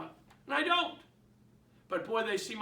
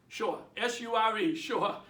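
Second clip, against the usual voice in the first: "Sure" in a Boston accent, spelled out between takes. Shown as a demonstration. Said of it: "My Boston accent".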